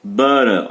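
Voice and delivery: "Butter" said as ba-rer, the U an a and the tt tapped. Shown as a demonstration. Teacher explaining the silent E, "Butter" with a. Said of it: "o E não tá na sílaba do U".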